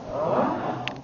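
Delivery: WHAT swooping up at the end; surprised rising tone. Shown as a demonstration. Teacher shows English rising tone, surprised question. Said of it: "with the second tone".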